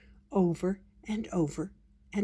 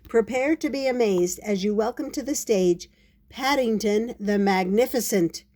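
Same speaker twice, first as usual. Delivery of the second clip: showy stage introduction; lightly hammed-up magician's patter; 3 semitones higher, 3 dB louder than usual. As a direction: announce the star act grandly. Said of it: "in his very best magician voice".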